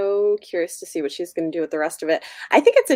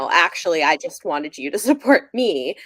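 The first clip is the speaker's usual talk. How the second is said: laughing mock boyfriend; 6 dB louder than usual. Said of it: "They're like".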